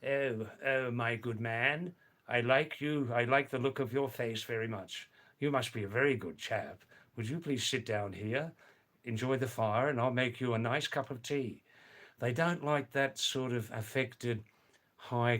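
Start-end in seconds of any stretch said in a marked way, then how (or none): 0.1-11.6 posh British. Retold or imitated. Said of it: "some of that high class".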